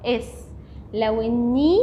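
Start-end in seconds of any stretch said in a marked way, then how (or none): 0.1-0.5 اس said as one syllable, vowel before the s; pronunciation demo. Shown as a demonstration. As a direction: say اس as a single closed syllable. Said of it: "حطيت عليها جنكم هنطقها".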